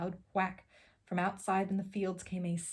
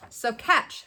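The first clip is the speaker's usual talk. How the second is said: calling out; 4 semitones higher, 8 dB louder than usual. A narrator's reading. Onceler tosses seed.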